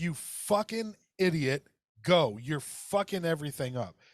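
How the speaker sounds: mock-furious, put-on angry ranting. Retelling being stuck behind a stalled driver, retelling a road-rage rant. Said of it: "I'm like".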